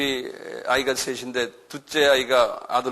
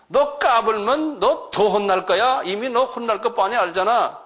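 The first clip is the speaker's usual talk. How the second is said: higher, slow, threatening warning; stern threat; 6 semitones higher, slower than usual. Acted. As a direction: warn the devil off, slowly. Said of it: "이런 식으로 이제 말하는 거예요".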